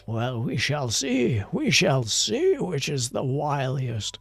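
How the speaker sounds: lightly hammed-up dramatic challenge; deliberate theatrical relish on the threats; taunting story schemer. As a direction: play a scheming rival in a novel. Acts a novel's villainous dialogue.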